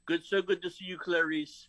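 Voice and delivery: lightly voiced creepy killer; a hint of Hannibal Lecter. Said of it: "this is my Hannibal Lecter imitation".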